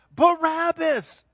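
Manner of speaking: drawn-out loud high cry; slow, loud crowd yell; crowd shout. Acted. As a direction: shout the name like a mob.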